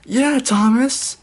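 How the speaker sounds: a crowd cheering back; group cheer. A narrator's reading. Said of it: "said everybody".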